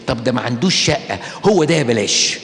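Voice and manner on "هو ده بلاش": a hint of a dithering lovesick girl; lightly voiced girl torn between yes and no; mock lovesick dithering. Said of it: "وبقول".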